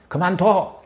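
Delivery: high, loud, slow angry shout at mom; violent outburst. Shown as a demonstration. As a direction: yell it like a furious child scolding. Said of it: "이 폭력적인 커뮤니케이션".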